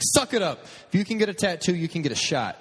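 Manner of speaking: high, no-nonsense mock scolding; forceful start, easing down as the point lands; nurse giving a hard time. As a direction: imitate a nurse ordering a patient to toughen up. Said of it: "she was giving me a hard time".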